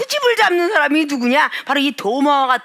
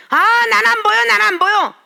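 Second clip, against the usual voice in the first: mock whiner; 6 semitones higher than usual. Mocking a complaining believer.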